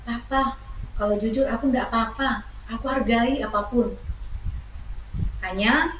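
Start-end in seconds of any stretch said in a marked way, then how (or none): 0.1-4.0 lightly voiced wife, soft and coaxing. Wife urges husband to be honest, softly coaxing. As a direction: gently press him to confess. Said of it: "Nah, Ibu paksa suamimu".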